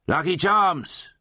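drawn-out, high vendor's call; hawker's cry. Acted. Slaughterer hawking talismans in Undertown, drawn-out high cry. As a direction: cry your wares high, stretching it out. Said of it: "he cried".

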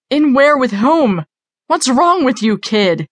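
alarmed, confrontational questioning; agitated demand. A narrator's reading. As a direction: fire questions back, pitched well up. Officer demands answers from the entity.

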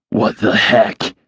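slow, out-of-breath huff. Acted. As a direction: huff it, struggling for air. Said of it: "he huffed".

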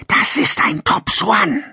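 slow, high hissing lizard voice; slow hypnotic serpent hiss. Acted. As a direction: hiss it slowly like a snake. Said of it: "zischelte sie".

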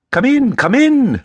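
calling out. Acted. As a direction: call a visitor in from across the room. Holmes calls from inside room.

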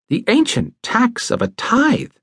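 mild declaring tone. A narrator's reading. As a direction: announce it like a solemn pronouncement. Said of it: "he declared".

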